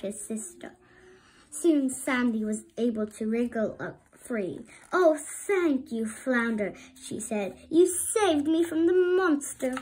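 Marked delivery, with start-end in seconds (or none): 4.9-9.7 high, loud thankful relief; grateful relief. A narrator's reading. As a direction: gush with relief. Rescued sister thanking brother.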